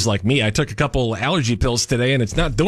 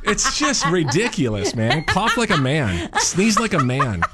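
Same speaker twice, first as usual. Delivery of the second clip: laughing; 4 semitones higher, slower than usual. Real, not acted. Laughing about manly sneezes.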